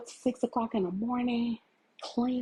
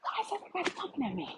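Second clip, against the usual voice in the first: fast, higher, fed-up whine; exasperated quote; 7 semitones higher, 4 dB quieter, much faster than usual. Retold or imitated. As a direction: throw up your hands at everyone. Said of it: "I'm like".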